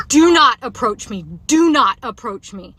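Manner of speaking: loud, slow, insistent warning; firm repeated loud command; repeated yell. Retold or imitated. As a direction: keep shouting the warning at him. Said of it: "kept saying it over and over".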